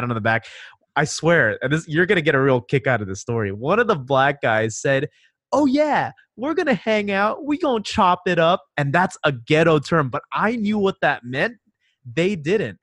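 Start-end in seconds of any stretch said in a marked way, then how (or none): 5.5-8.6 higher-pitched, lightly acted hangout invite; quoted street-slang invite, pitched up; imitated buddy. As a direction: casually quote a guy proposing plans. Quoting a guy's casual invitation.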